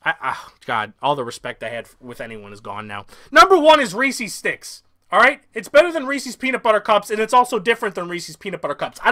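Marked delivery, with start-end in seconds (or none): 3.3-4.8 loud, slow, high grand reveal; hyped reveal. Real, not acted. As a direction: drag it out like a big reveal. Loud hyped number one reveal.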